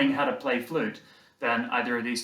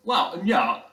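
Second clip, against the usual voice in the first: posh; 4 semitones higher, 6 dB louder than usual. Acted. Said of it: "he's very posh".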